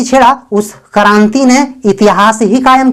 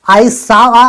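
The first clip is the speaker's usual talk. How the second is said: very slow, word by word; slow, clear dictation; slow model sentence; much slower than usual. Shown as a demonstration. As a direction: spell it out slowly for learners. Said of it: "मैंने एक बुरा सपना देखा".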